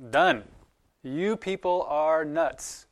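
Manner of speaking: exasperated outburst. Pretend. God fed up with his people, exasperated outburst. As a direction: throw up your hands and walk away.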